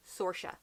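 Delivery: Saoirse as SOR-sha; anglicized Saoirse. Shown as a demonstration. Giving viewers the anglicized name, SOR-sha. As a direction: say Saoirse with an OR vowel. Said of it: "the anglicized version is".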